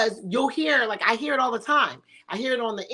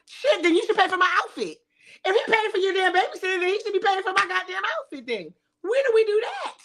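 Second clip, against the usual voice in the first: higher-pitched sassy demand; mock entitled demand; 9 semitones higher than usual. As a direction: play the entitled woman asking for more.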